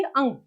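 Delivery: अंग sounded from the throat with a nasal ending; throaty pronunciation. Shown as a demonstration. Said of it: "इसे गले से बोला जाता है". (अंग को गले से बोलें)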